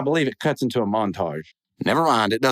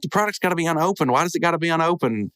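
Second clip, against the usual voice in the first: higher and quicker, indignant; indignant protest; 5 semitones higher than usual. Retold or imitated. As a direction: push back fast in disbelief. Friends arguing about refund.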